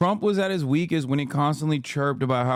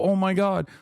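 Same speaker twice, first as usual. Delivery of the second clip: mock sympathetic host; 2 semitones higher than usual. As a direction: coo over a sob story. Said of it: "have him go".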